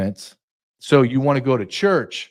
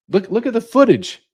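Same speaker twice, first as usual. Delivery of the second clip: mock insistence; 9 semitones higher than usual. Mocking counter voice.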